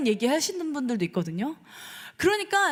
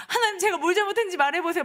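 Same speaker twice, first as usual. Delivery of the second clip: fast, acted whining protest to God; 따지는 기도; 3 semitones higher, much faster than usual. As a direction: rush it out like a complaint in prayer. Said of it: "막 이렇게 하잖아요". (빠르게 따지듯 하소연하는 연기)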